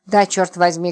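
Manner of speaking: understated angry bark; mild bark. Acted. Роман snapping at frightened Липочка, mildly barked. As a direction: fire it back crossly, without shouting. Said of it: "гаркнул Роман".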